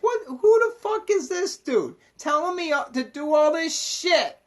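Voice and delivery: high, incredulous outburst; indignant rebel pushing back; rebellious indignation. Retold or imitated. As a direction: scoff at the bossy dude. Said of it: "You're like".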